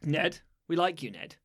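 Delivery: soft, close ASMR murmur; breathy intimate ASMR voice; ASMR whisper. Acted. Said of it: "That was a bit of A S M R for Ned there".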